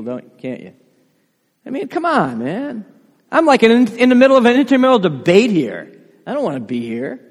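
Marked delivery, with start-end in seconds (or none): 1.6-7.2 exasperated Pilate. Acted.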